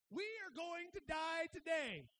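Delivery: servant yelling in terror that they'll die; panicked shout. Retold or imitated. Servant panicking at the army, shouting in fear.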